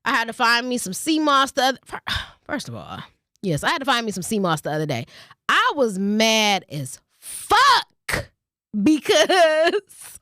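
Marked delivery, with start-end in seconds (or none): 5.5-10.2 laughing. Real, not acted. Laughing about being mad.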